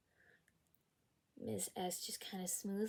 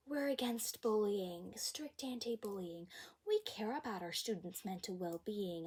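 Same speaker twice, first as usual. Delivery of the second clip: mock school slogan; 2 semitones higher than usual. Mocks the school's anti-bullying slogans.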